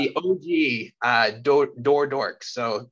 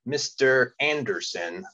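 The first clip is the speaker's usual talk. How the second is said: slow, drawn-out Mister Anderson impression; movie-line impression. Host introducing the special guest, slow mock impression. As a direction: stretch out the name as a playful impression. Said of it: "that's my very best impression".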